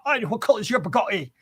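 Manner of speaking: high, loud mock Tate accent; Andrew Tate. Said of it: "He did that accent well, the Andrew Tate accent".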